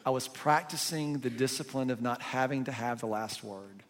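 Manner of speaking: soft, unhurried, kind reply; gentle. Retold or imitated. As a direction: answer gently, without any edge. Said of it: "sort of gentle way".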